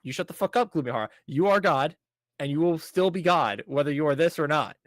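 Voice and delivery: hammed-up fangirl telling him off; mock fierce rant. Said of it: "to which she's just like".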